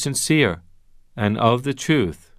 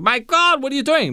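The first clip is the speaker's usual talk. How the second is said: high-pitched, appalled exclamation; acted alarm, voice jumping up; mock shocked outcry; 12 semitones higher than usual. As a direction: exclaim it like a startled onlooker. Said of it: "crashing into a party".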